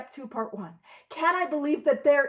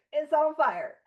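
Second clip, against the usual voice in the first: said through a laugh, higher; laughing admission; 3 semitones higher than usual. Real, not acted. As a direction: laugh at yourself as you say it. Joking about own life.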